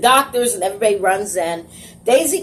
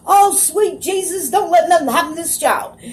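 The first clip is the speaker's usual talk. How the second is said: Daisy; 9 semitones higher, 3 dB louder than usual. Retold or imitated. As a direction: plead frantically like a panicking nurse. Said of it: "Daisy's over here screaming".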